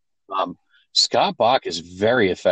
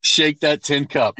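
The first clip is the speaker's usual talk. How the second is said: slow teasing taunt; 6 semitones higher, slower than usual. Pretend. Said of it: "What was that, bro?".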